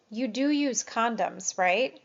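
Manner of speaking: "do" leaned on with a tag question; slow, suggestive "You do use" with a rising "right?"; leading stress on do. Shown as a demonstration. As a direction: push the "do" to lead the answer. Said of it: "would be a leading question".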